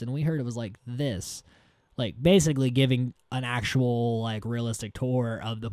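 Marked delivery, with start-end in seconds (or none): 0.0-1.4 second objection in an everyday pitch; imitated tourist, falling at the end; mock contradicting tourist. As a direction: add a correction without raising the pitch.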